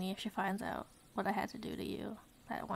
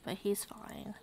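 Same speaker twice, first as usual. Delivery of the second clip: whisper; 6 dB quieter than usual. Real, not acted. Whispered aside.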